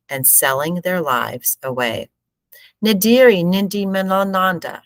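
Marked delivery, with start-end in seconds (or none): 2.8-4.8 high, loud hawker's call. A narrator's reading. Hawker calling buyers in the market, calling out. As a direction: call out to the passing crowd. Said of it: "a man called out".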